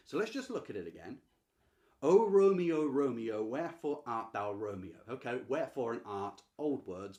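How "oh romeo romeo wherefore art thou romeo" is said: very loud opening cry that falls away; theatrical calling. Acted. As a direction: call out to a lover, then let it sink. Acting Juliet's balcony line once more.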